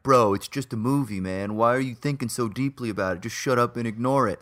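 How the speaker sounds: lazy stoner dismissing you. Retold or imitated. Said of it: "That's my, like, stoner criticism voice".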